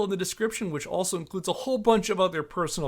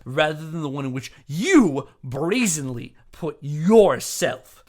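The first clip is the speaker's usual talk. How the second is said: Jack Thompson's tirade; 7 dB louder than usual. Retold or imitated. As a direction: thunder it out like a lawyer facing disbarment. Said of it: "back to Jack".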